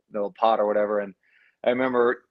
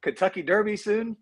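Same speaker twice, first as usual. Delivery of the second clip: heckling fan; 8 semitones higher than usual. Retold or imitated. Fans in Fayetteville taunting the coach's son, high mocking heckle. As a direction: jeer at the short guy like a rowdy fan. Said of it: "And they're like".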